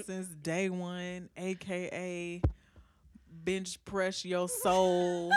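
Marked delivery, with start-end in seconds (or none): 3.3-5.3 laughing. Real, not acted. Hype nickname, laughing.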